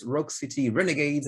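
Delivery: "Rock City Renegades" said in an English accent. Shown as a demonstration. Naming the board game expansion to viewers, in an English accent. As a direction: give the English title in an English accent. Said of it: "mon accent anglais commence à partir en sucette".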